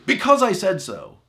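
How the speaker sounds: loud, high parental snap; exasperated parent. Retold or imitated. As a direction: shut the argument down hard. Parent's exasperated final word.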